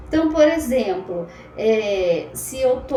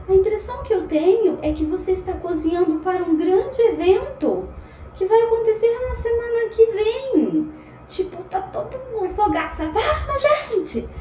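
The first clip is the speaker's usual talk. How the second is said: higher, fast mock judge voice, louder; hammed-up impression of a TV judge, higher and louder; imitating Paola; 8 semitones higher, 3 dB louder than usual. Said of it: "E aí a Paola fala". (imitando a Paola, mais aguda e mais alta)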